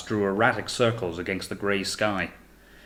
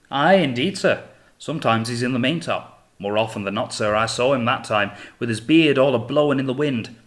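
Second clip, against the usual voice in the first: excited; 3 semitones higher, 5 dB louder than usual. Acted. Finch eagerly describing the ghost.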